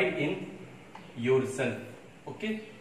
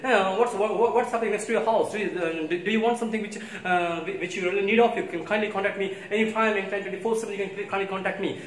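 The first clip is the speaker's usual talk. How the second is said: higher-pitched put-on American chatter; imitated American accent; 5 semitones higher, 3 dB louder than usual. Shown as a demonstration. Teacher showing how people speak in America, imitated American accent. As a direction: do a hurried, stumbling mock American accent. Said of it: "how do you speak? ... the tone, the accent".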